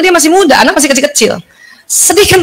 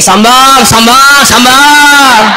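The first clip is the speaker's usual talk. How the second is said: scolding mother; much slower than usual. Retold or imitated. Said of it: "Ibunya gini".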